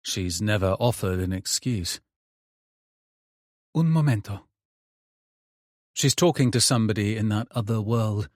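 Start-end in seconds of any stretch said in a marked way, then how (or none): 3.7-4.5 higher Italian aside; mother's voice. Acted. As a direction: mum turning away briefly, higher.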